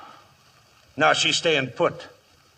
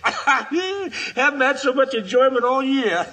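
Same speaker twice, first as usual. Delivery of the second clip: slow words broken by laughter; enjoy the danger while laughing; 6 semitones higher, slower than usual. Acted. Outlaw laughing at the siege.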